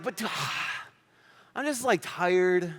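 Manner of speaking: a mock weary superhero, sighing and slow; lightly voiced, worn-out hero groaning about another long fight; tired Superman. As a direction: play Superman fed up with fighting. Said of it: "What if Superman was like".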